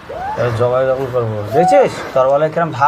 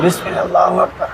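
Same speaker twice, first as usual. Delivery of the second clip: shouted takbir. Acted. Villain shouting takbir at victim.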